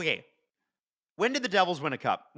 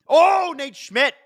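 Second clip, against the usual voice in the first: much higher and louder, slowly stretched; sudden thrilled exclamation; excited call; 11 semitones higher, 7 dB louder, much slower than usual. Real, not acted. Fan reacting to Nate Schmidt's play, excitedly.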